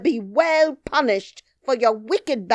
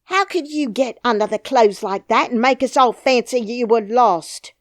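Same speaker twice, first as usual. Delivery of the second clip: loud, high furious scolding; angry nurse; 7 semitones higher, 11 dB louder than usual. Acted. Nurse scolds the lost princess, loud and angry. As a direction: rail at the child, voice up.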